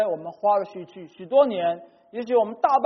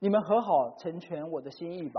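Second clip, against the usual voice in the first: fading, hushed last request; imitating a dying mother, softer and lower toward the end; dying mother's plea; 4 semitones lower, 7 dB quieter than usual. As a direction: let the plea sink away to almost nothing. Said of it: "就像一个临死的母亲".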